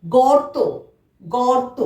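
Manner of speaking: careful teacher's গর্ত, r before t; model pronunciation. Shown as a demonstration. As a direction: say গর্ত with র sounded just before ত. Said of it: "তয়ের আগে আমরা র".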